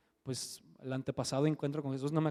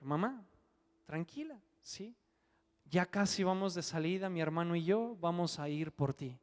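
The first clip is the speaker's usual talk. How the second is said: calmando a mamá; 5 dB quieter than usual. Retold or imitated. Hijo calma a su madre.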